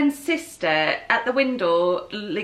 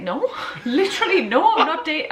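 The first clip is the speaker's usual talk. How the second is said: higher, laughing flustered no; laughing denial; 6 semitones higher than usual. Retold or imitated. Denying to his mother while laughing. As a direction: giggle through the denial. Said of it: "And I was like".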